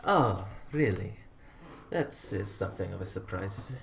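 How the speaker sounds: understated Sicilian with mild surprise; a hint of bad Sicilian accent. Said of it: "attempting to do a very bad Sicilian accent".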